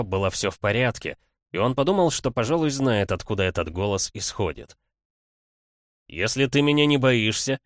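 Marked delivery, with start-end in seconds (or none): 6.1-7.6 louder, growling dare; growled challenge. Acted. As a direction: growl it back at the dark. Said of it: "прорычал он". (рычащий вызов)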